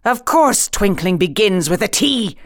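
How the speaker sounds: mildly irritated royal retort; sharp. Acted. King correcting the Hatter, mildly sharp. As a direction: answer with a touch of sharpness. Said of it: "said the king sharply".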